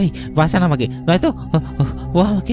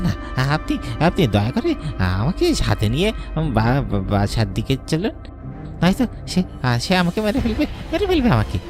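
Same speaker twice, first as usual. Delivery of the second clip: frightened pleading. Acted. Begging not to be left.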